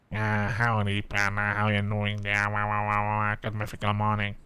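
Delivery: cowboy voice. Shown as a demonstration. Streamer trying out a voice for a new character, light cowboy accent. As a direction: do a cowboy, trailing into babble. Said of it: "That was my cowboy voice".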